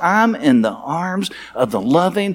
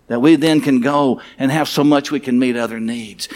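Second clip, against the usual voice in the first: hushed, earnest closing prayer; pastor's closing prayer. Acted.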